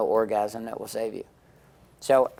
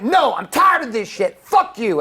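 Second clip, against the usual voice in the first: furious shout; 12 semitones higher, 11 dB louder than usual. Retold or imitated. Wife yelling back in fight.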